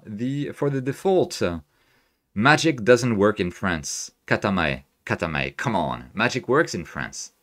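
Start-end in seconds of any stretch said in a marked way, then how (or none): 2.3-4.1 slow, hammed-up French accent; lightly put-on French accent; mock French accent. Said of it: "outrageous French accent going forward". 4.2-6.1 mock French accent. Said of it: "outrageous French accent going forward". 6.1-7.3 mock French accent. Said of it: "outrageous French accent going forward".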